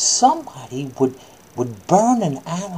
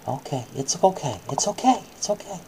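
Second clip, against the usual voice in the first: soft, gentle reassurance, trailing quieter; soothing; 2 semitones lower, 5 dB quieter, faster than usual. Real, not acted. Comforting upset child.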